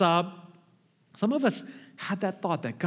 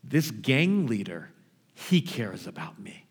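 defiant son; 5 semitones lower than usual. Retold or imitated. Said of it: "And he said".

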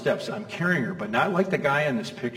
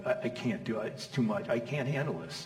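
softer, defeated murmur; overwhelmed; 2 semitones lower, 8 dB quieter than usual. Retold or imitated. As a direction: sound like Joseph crushed by the task. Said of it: "I'm going like".

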